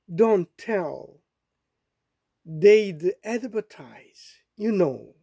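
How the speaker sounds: slow verse reading with lilting questions; poem recitation. Acted. Asking "are you nobody too", slow poem recitation. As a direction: recite it slowly, with long pauses between phrases.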